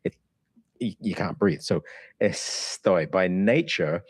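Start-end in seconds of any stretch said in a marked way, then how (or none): 2.2-3.1 Estoy said slowly, the S a soft breath. Shown as a demonstration. Teacher shows the aspirated S in Estoy, slowly. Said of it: "S's have this breath".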